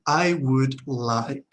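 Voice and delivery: very slow, each word stretched out; slow pronunciation model. Shown as a demonstration. Teacher models the phrase after explaining silent L, very slowly. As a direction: draw the words right out for learners to copy. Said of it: "La L no se pronuncia".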